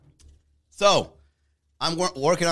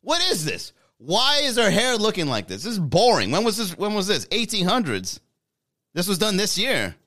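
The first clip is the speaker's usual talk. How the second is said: high, loud, incredulous Miami bro; loud Miami guy; 9 semitones higher, 4 dB louder than usual. Retold or imitated. Miami guy mocking a European painting, loud and high. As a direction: scoff at the boring painting, pitched up and loud. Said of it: "We'd have the Miami guy looking at that art piece".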